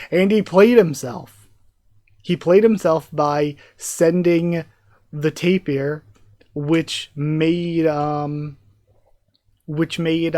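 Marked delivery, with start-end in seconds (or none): 0.1-4.7 loud and slow, savouring the irony; gleeful, drawn-out emphasis; excited exclaim. Real, not acted. Excited reader gloating over the villain's blunder, loud and slow.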